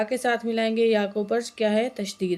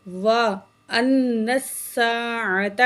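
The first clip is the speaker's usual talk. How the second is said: slow, drawn-out tajweed chanting; Quran recitation; much slower than usual. Shown as a demonstration. Teacher recites the verse for students, slow melodic chant. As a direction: recite slowly with full nasal hum.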